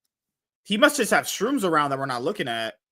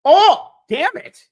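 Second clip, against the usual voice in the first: frustrated groan; 11 dB louder, much slower than usual. Real, not acted. Gamer frustrated by death.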